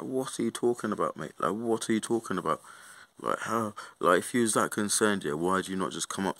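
indignant retort. Retold or imitated. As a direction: fire it back at them, disbelieving.

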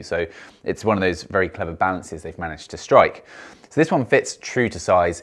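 muffled behind chin bar; speaking inside helmet; through a full helmet. Real, not acted. Seen 0: Full helmet on throughout; speech may be voice-over, mouth hidden.

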